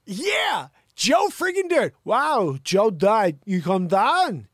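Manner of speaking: high, loud redneck-style whoop; mock hollering. Hollered mock outburst over a mullet.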